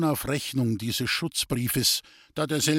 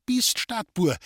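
put-on old mother crying out in fright, higher; startled, alarmed outburst; frightened mother calling out; 8 semitones higher, slower than usual. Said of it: "rief die Alte erschrocken".

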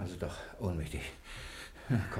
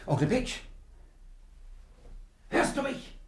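much higher call, then a near-whispered question; testing call. Acted. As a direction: check whether he is really out. Testing if uncle is unconscious.

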